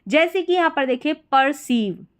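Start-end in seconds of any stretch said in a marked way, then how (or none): 1.1-2.1 "परसीव" with c sounded as s; "ceive" as seev. Shown as a demonstration. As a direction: say "परसीव" ending in a long-ee seev. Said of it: "ईव करके इसको पढ़ा जाता है".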